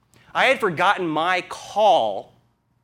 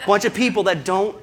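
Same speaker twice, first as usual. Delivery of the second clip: laughing it out, louder; 6 semitones higher, 5 dB louder than usual. Real, not acted. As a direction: push through the laughter.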